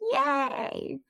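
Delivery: high, drawn-out yay; celebratory little whoop; happy cheer. Real, not acted. Cheering at the episode wrap-up.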